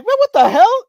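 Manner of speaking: mock outraged yelp, high and loud; indignant protest. Group protests at being roasted.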